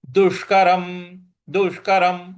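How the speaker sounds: दुष्करम with tongue curled back for ष; retroflex sh. Shown as a demonstration. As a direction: curl the tongue to the palate on the ष of दुष्करम. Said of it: "जीभ को मूर्ध्वा पे लगा". (दुष्करम में मूर्धन्य ष)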